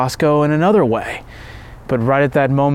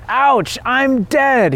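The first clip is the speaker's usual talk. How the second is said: mock scream; 10 semitones higher, much slower than usual. A narrator's reading. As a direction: cry out high as if struck down, held back in volume. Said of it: "he screamed".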